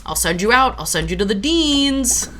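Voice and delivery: lightly voiced teacher's warning, pitch rising at the end; mock teacher threat. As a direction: jokingly threaten an unruly class. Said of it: "I made some teacher jokes".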